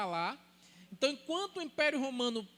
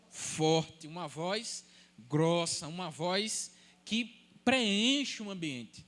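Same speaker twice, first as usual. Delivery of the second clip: lower, slow, louder booming voice; deep strong voice; 6 semitones lower, 4 dB louder, much slower than usual. Shown as a demonstration. Pastor demonstrating the trumpet-like voice, lower and booming. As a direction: lightly show a voice that fills the room. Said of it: "Eu não tenho essa voz".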